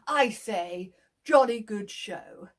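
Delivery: hammed-up snooty gentleman; posh farmer. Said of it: "And I'm going to say".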